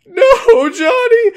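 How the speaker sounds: shrieking high and loud cry; hammed-up scream. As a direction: wail in mock panic. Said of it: "she goes".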